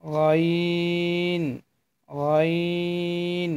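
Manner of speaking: teacher modelling গইন slowly; slow letter demo. Shown as a demonstration. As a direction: stretch গইন slowly for learners. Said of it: "গইন হরফটি উচ্চারণ করতে হবে".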